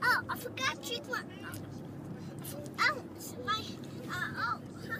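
upset crying. Real, not acted. Child upset about forgotten hat.

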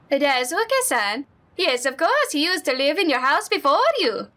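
put-on friendly neighbor lady, lightly accented; Honda-san voice. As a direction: play the sweet old neighbor.

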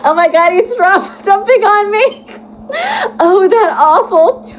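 high shocked outcry; shocked squeal. Real, not acted. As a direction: yelp it high in disbelief. Shocked reaction, shouted.

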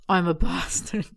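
slow, loud put-on voice of a smug guy; hammy mock bravado; mock Topher voice. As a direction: drag out the words, playing the smug bastard. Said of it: "I can't do an accent".

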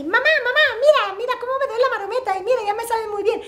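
put-on high, fast child's voice calling mom; a proud kid bursting to show his trick; excited little boy. Son calling his mother to watch his somersault, high and fast.

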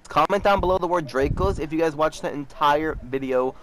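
upbeat outro read to the viewers; chirpy sign-off pitch; youtuber outro. Acted. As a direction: sell the like and subscribe.

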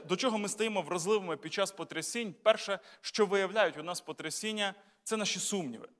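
ordinary talk, nothing marked

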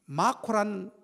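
usual speaking voice

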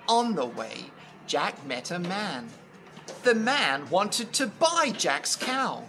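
expressive storybook reading with long pauses; story narration. A narrator's reading. Telling Jack and the Beanstalk, expressive storytelling. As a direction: read a fairy tale to children.

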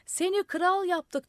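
high, slow, loud call; crowd shouting. A narrator's reading. Crowd shouting up to the madman, slow and loud. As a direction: call it up slowly. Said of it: "diye bağırdılar".

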